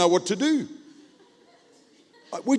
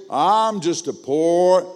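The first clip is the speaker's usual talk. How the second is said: slow mimicked reply, a bit louder; slow, mocking imitation; imitating churchgoer; 5 dB louder, much slower than usual. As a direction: mimic a grown man's drawn-out stock reply. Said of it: "in the middle of him saying".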